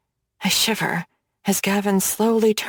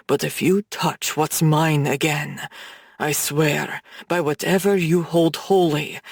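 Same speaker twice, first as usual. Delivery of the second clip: low, measured threat; menacing mob boss; 4 semitones lower than usual. Acted. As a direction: lean in and threaten him, low and cold. Gavin threatens Brooks.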